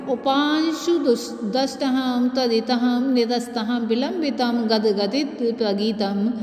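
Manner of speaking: slow, measured chanting of a Sanskrit shloka; Sanskrit verse recitation. Acted. Teacher reciting Panini's verse to students, slow and measured. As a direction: recite each word slowly, like scripture.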